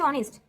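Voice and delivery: অনেস্ট said with a silent h, starting on the vowel অ. Shown as a demonstration. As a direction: drop the h sound in অনেস্ট. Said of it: "অ উচ্চারণ হয়ে যাচ্ছে". (অনেস্ট শব্দে এইচ উচ্চারণ হবে না, শুরু হবে অ দিয়ে)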